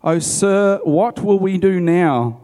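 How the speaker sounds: high, loud, slow panicked plea to his master; a servant waking to an army all around, pleading; frightened cry. A narrator's reading. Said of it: "the young man cried to Elisha".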